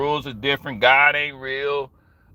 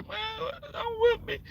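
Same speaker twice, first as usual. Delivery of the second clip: put-on pleading kid; 10 dB quieter, slower than usual. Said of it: "I try to hug her".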